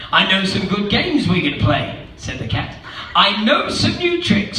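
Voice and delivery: a sly showman pitching his games; cheeky cat. Acted. Cat's lines read in voice.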